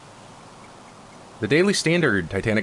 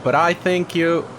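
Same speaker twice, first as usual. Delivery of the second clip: a quick hammed-up English accent, pitched higher; mock English accent; 8 semitones higher than usual. Gamer reading a note aloud, in a mock English accent. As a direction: start the line in a bad English accent. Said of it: "That's a terrible accent to use".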